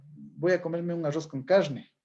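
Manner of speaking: Ecuadorian highland accent with assibilated Rs; accentuated sierra R. Shown as a demonstration. Teacher imitating highlanders for students, sierra accent with accentuated R. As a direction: give every R a strong Andean sierra hiss. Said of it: "una pronunciación acentuada de la R".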